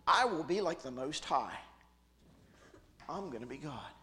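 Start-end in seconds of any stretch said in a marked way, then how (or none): 0.1-1.6 a hint of Lucifer. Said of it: "that's how he sounds, right?".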